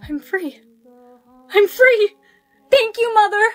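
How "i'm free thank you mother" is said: joyful cry. Acted. Wins the game, celebrates.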